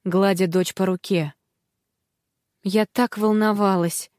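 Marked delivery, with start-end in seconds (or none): 2.6-4.1 tender relief. Acted. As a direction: comfort a hurt daughter. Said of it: "ласково произнесла мама".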